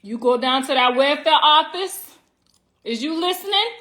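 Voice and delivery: welfare office said the New York way, rising at office; a light New York twang on You go down to that welfare office; New York accent. Shown as a demonstration. Comic telling the crowd how New Yorkers say it, in a New York accent. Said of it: "this how they say it".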